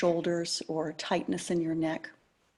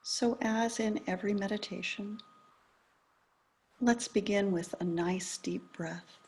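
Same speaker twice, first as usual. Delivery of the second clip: calm, unhurried meditation guidance with long pauses; guided meditation. Acted. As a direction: ease listeners gently into attending to the breath.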